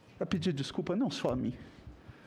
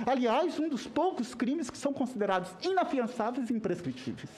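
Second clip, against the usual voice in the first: higher-pitched, pressing challenge; real outburst in a raised pitch; indignant venting; 3 semitones higher than usual. Real, not acted. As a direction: vent your indignation at an official. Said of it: "Desculpa o desabafo".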